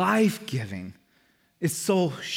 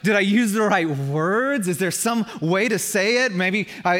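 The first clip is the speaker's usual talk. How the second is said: agitated self-questioning; 4 semitones higher, 5 dB louder than usual. Acted. Acting out anxious doubt in prayer.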